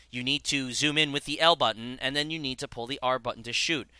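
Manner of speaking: unemotive instructor reading out controls, imitated; Franklin. Officer explaining the buttons to a trainee, mock unemotive delivery. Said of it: "unemotive for the entire time that she's talking to you".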